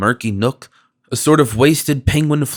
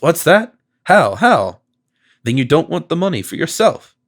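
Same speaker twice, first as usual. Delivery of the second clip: startled; 4 semitones higher than usual. A narrator's reading. Miser suddenly alert, bewildered.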